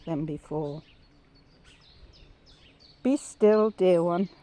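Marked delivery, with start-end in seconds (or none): 3.0-4.3 firm, louder "Be still, dear one"; voice of God. Retold or imitated. God to the speaker, a clear, louder call. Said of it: "I hear him saying now".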